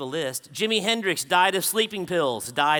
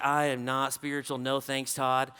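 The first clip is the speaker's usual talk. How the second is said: lower-pitched imitation of an uninterested neighbor; mild dismissive refusal; 6 semitones lower, 5 dB quieter than usual. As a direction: turn down the invitation, understated and low. Neighbor turns him down.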